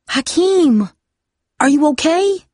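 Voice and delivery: high, breathless cry of alarm; gasping in alarm. A narrator's reading. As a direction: gasp it out, frightened for him. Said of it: "she gasped".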